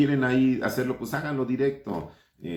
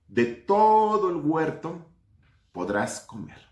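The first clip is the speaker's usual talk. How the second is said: solemne, lenta, bajando hasta un susurro; voz de Dios; 5 semitones lower, slower than usual. Acted. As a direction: Dios advirtiendo con gravedad. Voz de Dios leyendo la instrucción. (voz de Dios que advierte, cada vez más baja y lenta)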